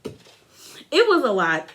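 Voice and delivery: imitating Andy, slow. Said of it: "even Andy was like".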